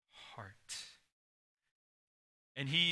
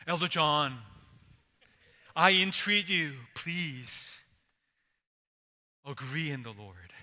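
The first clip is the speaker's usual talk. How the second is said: louder, earnest appeal to an elder; pleading preacher; 5 dB louder than usual. Pretend. Pastor pleads with Elder John from the pulpit, loud and earnest. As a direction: call out the elder and beg him. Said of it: "It's like me during my sermon".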